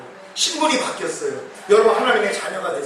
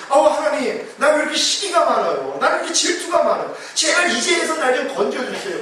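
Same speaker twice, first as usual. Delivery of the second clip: mock whiny prayer, higher pitched; 하소연하는 기도; 5 semitones higher than usual. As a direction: imitate a believer lamenting and begging God. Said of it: "이런 기도 좀 하지 마세요". (높은 목소리로 하소연하는 기도 흉내)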